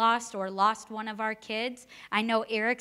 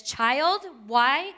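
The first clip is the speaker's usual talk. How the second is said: a hint of a stern mom, louder; 5 dB louder than usual. Mom catching her kid in trouble, mildly stern. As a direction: pitch up a scolding "Child, why?". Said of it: "your mom looks at you and says".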